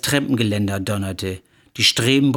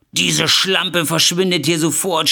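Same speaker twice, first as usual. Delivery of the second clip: mock scream; 5 semitones higher than usual. Wife finding another woman in the bedroom, acted scream. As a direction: act out a furious outburst, raised in pitch. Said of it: "schrie sie".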